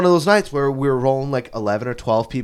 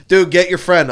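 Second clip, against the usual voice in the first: bartender yell; 4 semitones higher, 8 dB louder than usual. Retold or imitated. Bartender quoted angrily.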